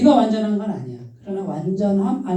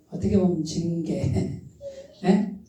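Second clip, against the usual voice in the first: ordinary talk, nothing marked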